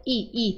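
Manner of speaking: I said twice as a clear ee sound. Shown as a demonstration. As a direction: repeat I like the vowel ee. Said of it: "tá vendo?".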